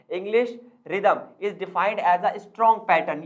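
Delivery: slow, word-by-word dictation of a definition; dictating slowly. Shown as a demonstration. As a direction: read it out slowly so students can write it down. (धीरे-धीरे notes लिखवाते हुए)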